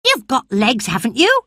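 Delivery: a lively country lad reassuring his friend; cheerful boy Dickon. Acted.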